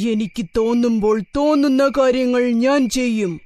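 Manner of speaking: lightly voiced indignant lion; mildly angry, lordly lion; angry lion king. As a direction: assert royal rights with a touch of anger. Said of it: "ദേഷ്യത്തോടെ പറഞ്ഞു".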